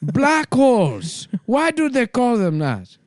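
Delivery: high, slow synthesized voice; computer voice. Retold or imitated. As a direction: announce it like a speech computer. Hawking computer voice continues.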